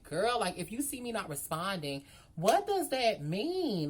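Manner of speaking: loud, slow, exasperated question. Retold or imitated. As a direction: let the annoyance build. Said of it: "And I'm just like".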